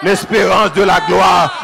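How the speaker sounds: landing the phrase after the peak, slowly; drawn-out resolve. Acted. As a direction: bring L'espérance de la gloire back down, slowly and weighty. Answering line after climax.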